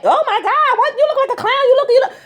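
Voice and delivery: high, sneering mock laughter; mocking a clown outfit. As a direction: taunt them like a schoolyard bully.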